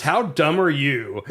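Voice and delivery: slow, drawn-out scolding; retold condescending put-down; berating tone. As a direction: spell out the disbelief slowly, as if berating. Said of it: "but my tone was".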